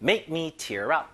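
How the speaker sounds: slow read with MAKE stressed; slow model phrase. Shown as a demonstration. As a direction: give it slowly for learners. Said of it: "조금 더 세련된 방법". (천천히 시범 읽기)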